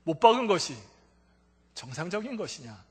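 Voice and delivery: voice of God. Retold or imitated. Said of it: "세미한 음성으로".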